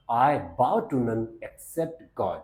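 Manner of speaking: each word slow and spaced, bow said as "bau"; slow dictation of the line; slow careful demo. Shown as a demonstration. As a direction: teach it word by word, slowly. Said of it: "जब बाव बोलेंगे".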